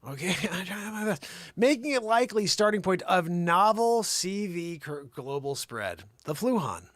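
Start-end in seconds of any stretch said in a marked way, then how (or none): 1.6-6.8 newsreader delivery, punched at the start; news read. Acted. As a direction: read the report out with mock weight. Reads a news report aloud.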